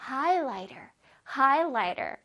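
"highlighter" with a gently dropped ER; soft dropped ending. Shown as a demonstration. Teacher drilling pupils, lightly dropped ending. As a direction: let the ER in "highlighter" fall softly. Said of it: "부드럽게 살짝 톡 떨어뜨려주세요".

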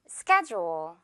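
"schedule" said SKED-jool, with a j sound. Shown as a demonstration. Teacher modelling "schedule" for learners, careful j sound. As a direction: say "schedule" with the d softened to j, slowly. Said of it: "One more time".

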